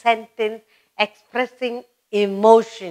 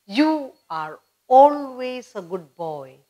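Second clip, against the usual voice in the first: praise; slower than usual. Retold or imitated. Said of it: "somebody who's always good".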